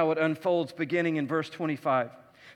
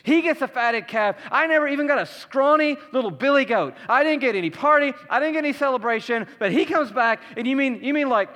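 put-on resentful older son; 4 semitones higher than usual. Older son's jealous complaint.

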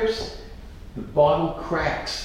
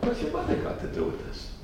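high, breathy disbelieving squeak; mock astonished squeak at mother; incredulous high question; 5 dB quieter than usual. Asking the rabbi, high and incredulous. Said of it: "I said".

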